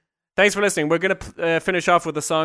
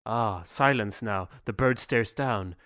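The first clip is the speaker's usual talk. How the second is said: mock poetry recital; 4 semitones lower than usual. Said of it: "do a poem with me".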